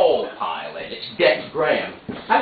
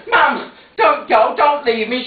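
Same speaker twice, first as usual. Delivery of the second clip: pleading; 11 semitones higher, 6 dB louder, slower than usual. Acted. Son pleads with mother.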